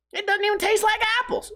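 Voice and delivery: mock the ad in a shrill-high kid voice; high mocking commercial voice. Mocking the cereal ad's kid, high mock voice. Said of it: "your branding killed it for me".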